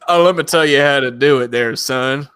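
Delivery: lightly put-on country accent; a hint of country accent. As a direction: slip into a mild Southern accent, folksy advice. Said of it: "start listening to country and you're like".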